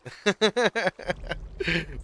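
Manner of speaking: loud, high burst of laughter; real laugh at a shared memory; hearty laugh. Real, not acted. Remembering an old shared joke.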